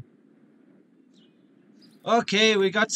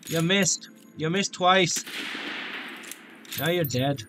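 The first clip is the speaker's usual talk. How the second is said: put-on Irish taunt; Irish accent; slower than usual. Player mocking a game enemy who missed, Irish accent. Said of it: "I need to stop doing the Irish accent".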